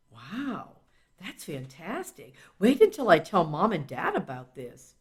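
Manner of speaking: put-on a thrilled kid, hushed at first; child reader's voice. Child reacting to the narrator, in a lightly voiced amazed kid voice.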